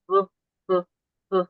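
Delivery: b, b, b hummed so the throat vibrates; voiced b drill; repeated voiced b. Shown as a demonstration. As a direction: let b buzz in the throat. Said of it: "moving from p to b".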